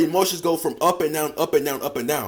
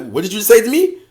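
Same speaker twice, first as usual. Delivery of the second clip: louder, higher, mock offended; offended girl; 4 semitones higher, 5 dB louder than usual. Girl insulted by the joke, mock offended. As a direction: act stung and indignant. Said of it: "She gonna be like".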